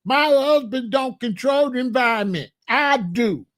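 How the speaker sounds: a hint of a domineering wife scolding; lightly voiced wife telling her husband off; mock bossy wife. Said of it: "Missus God snatched the phone and said".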